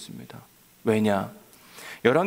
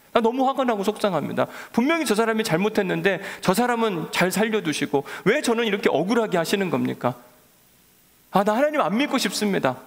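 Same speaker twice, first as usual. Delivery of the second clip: mock aggrieved complaint; 6 semitones higher than usual. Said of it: "똑같이 요나처럼 기도하고".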